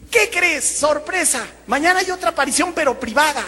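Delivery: high-pitched mock-happy announcement; felices. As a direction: imitate giddy friends springing a surprise, high voice. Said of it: "llegan en la noche felices". (imitación aguda de gente feliz dando una sorpresa)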